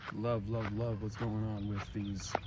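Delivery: soft, cracking voice. Real, not acted. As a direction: voice breaking as it trails off. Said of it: "my voice is cracking a bunch today".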